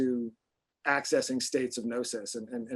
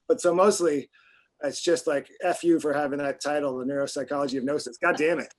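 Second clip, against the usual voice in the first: half-joking loud rant, slowing on the first words; mock outrage; 4 dB louder than usual. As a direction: playfully curse the book title as if jealous. Mock rant at a book title.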